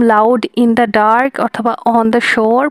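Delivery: very slow, dark and shore stressed; anapest rhythm. Shown as a demonstration. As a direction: beat out da-da-DUM slowly. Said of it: "প্রথম দুইটা হচ্ছে আনস্ট্রেসড এবং শেষটা stressed". (dark আর shore-এ জোর দিয়ে ধীরে)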